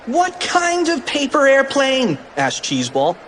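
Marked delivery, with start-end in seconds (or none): 0.0-2.2 high, slow frantic question; panicked question. Acted. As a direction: ask in a panic.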